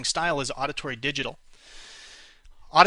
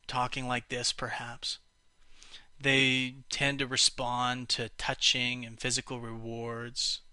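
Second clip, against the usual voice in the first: slow kinesthetic talk; 2 semitones lower, slower than usual. Shown as a demonstration. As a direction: drawl it out, feeling each word. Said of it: "They'll often talk very slowly".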